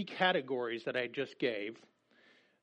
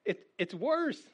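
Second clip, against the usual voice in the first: higher, louder apostle's warning; pitched-up, loud mock scolding; voicing Paul, emphatic; 8 semitones higher, 4 dB louder than usual. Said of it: "Paul's like".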